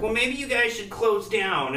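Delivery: mocking the lady. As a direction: drag it out high like the clueless lady. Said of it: "she's like".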